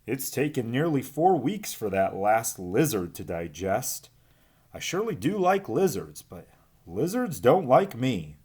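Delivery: a hint of a lazy old snake complaining; lightly voiced droopy snake; lightly voiced Umbles. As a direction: grumble about the lizard mildly. Umbles speaks after burping.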